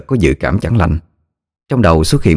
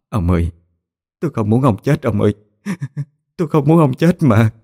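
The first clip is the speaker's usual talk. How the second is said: tearful pleading; 6 semitones higher than usual. A narrator's reading. Wife pleading with sick husband.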